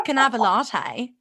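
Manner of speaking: Scouse attempt gone Australian; accidental Australian accent. Host repeating her radio blunder, botched Scouse turned Australian. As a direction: order with an Australian lilt by mistake. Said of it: "that was Australian".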